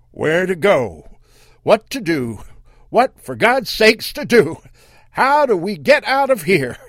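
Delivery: panicked high loud screaming; trapped family screaming for help; screamed. Acted. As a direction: cry out in terror. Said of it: "They all screamed at once".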